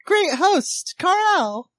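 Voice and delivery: formal toast in a high character voice; high-voiced toasting guest. Guest toasts the host Carl, high ceremonious voice. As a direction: pitch it high and propose grandly.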